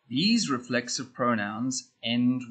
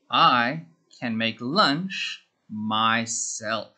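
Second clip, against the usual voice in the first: slow dictation; 2 semitones lower, much slower than usual. Shown as a demonstration. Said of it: "Our answer".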